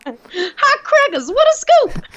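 put-on very high, stretched old-time newsie; old-timey newsboy. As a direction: cry it out like a newsboy. Joining the old-timey theater bit.

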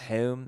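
"Home" said with a short nasal oo vowel, like hoom; Pennsylvania-style home. Shown as a demonstration. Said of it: "they pronounce home home".

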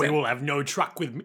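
put-on Cockney guard accent; amateur Cockney officiousness. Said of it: "deserves the Cockney accent".

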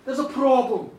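loud, firm admission; acted blunt confession; reluctant announcement. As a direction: own up to it out loud. Woman admits problem to king.

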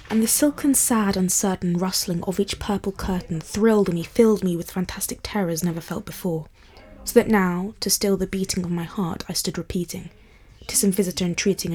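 measured, solemn poetry recital; poem reading. Acted. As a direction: read it like a dark Victorian poem. Reads The Raven aloud.

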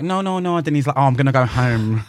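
lightly put-on Irish accent; a hint of an Irish lilt; retelling him in a light Irish accent. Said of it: "That was his Irish accent".

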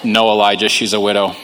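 lightly voiced God, low and patient; God's reply. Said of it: "So God says".

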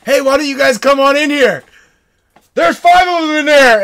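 high, loud reenacted trash talk; taunting shout. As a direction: holler a dare into the woods. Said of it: "I was, like, talking shit to 'em".

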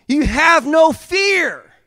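high, loud, slow proclamation; preaching at full force. Acted. Preacher proclaiming to the congregation, high loud and slow.

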